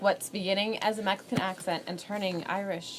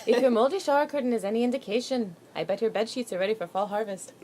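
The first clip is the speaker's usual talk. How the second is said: Indian accent attempt. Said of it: "That was Indian".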